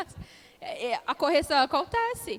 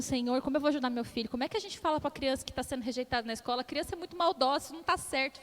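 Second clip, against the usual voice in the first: desperate prayer; faster than usual. Retold or imitated.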